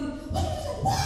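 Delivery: very high-pitched mock shriek; imitated shriek. Preacher imagines the spirit leaving a man, shrieking. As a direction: imitate someone shrieking, without full volume. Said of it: "came out of the man with a shriek".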